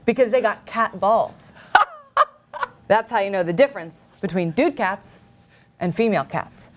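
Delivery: lightly performed, earnest deadpan reading with pauses; naive ad reading. Acted. Reading a child cats ad to the co-host, earnest deadpan delivery. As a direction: read each odd phrase as if it made perfect sense. Reads a Craigslist ad in character.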